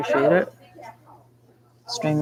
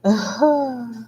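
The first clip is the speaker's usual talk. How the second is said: yawning sigh; 7 semitones higher, 4 dB louder than usual. Real, not acted. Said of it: "I'm sorry I keep yawning".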